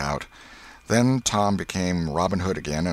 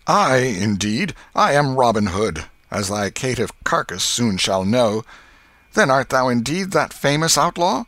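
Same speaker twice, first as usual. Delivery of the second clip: high, loud heroic boast; stagey fake archaic declaiming; 5 semitones higher, 5 dB louder than usual. A narrator's reading. Boys act Robin Hood.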